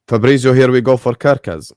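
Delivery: loud, punchy transfer-news call; excited announcement. Real, not acted. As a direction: bellow the breaking news to chat.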